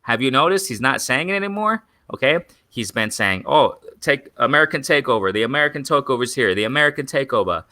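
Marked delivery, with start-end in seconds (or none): 3.5-7.6 half-hearted mock English accent, a little raised; bad English accent. Promoter boasting of the American Takeover, in a shaky attempt at English accent. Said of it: "do that whole English accent. I'm horrible at it".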